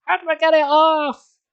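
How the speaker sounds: high, loud desperate begging; high frantic plea. Acted. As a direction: beg with everything she has. Begging to remove the face.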